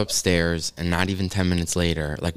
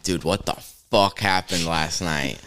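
dazed morning-after; 2 semitones lower, slower than usual. Retold or imitated. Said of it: "we wake up the next morning".

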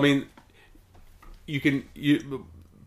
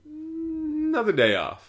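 sarcastic; much slower than usual. Retold or imitated. Mocking repeated days off.

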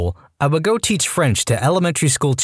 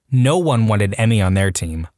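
usual speaking voice

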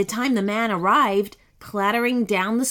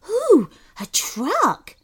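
high, drawn-out gleeful ooh; 9 semitones higher, 3 dB louder, slower than usual. A narrator's reading. Sloth spotting an empty truck, gleeful. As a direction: coo it slowly with glee. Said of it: "said Sebastian with glee".

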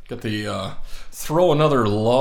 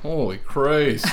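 amazed; 4 semitones higher, 3 dB louder, slower than usual. Real, not acted. Amazed at soup gulp.

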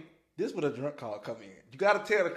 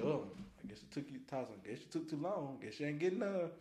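mild teasing brush-off; 11 dB quieter, faster than usual. Retold or imitated. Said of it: "She said".

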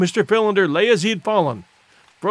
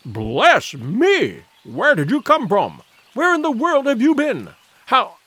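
flustered amazement, pitch swooping up; incredulous exclaiming; astonished questioning; 5 semitones higher, slower than usual. A narrator's reading. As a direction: fire off amazed questions, swinging high. Astonished man fires off questions.

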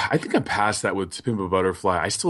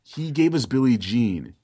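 questioning tone. Retold or imitated. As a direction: ask it as a real question, rising. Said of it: "So what if he's saying".

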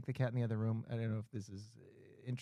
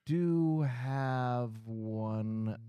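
broken English caller; 2 semitones lower, 3 dB louder, much slower than usual. Retold or imitated. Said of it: "doesn't speak very good English".

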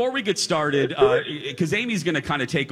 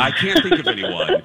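squeaky high imitation of her line; high mocking echo; 3 dB louder than usual. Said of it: "mimics Amy's line high".

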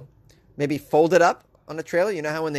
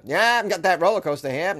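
put-on Maine accent; 3 semitones higher than usual. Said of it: "That's the Maine accent".

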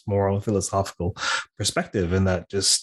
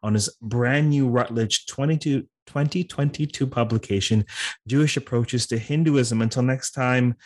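upbeat host outro, a bit faster; formal podcast sign-off; 3 semitones higher than usual. Real, not acted. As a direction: wrap up the show like a radio host. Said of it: "while I formally sign off".

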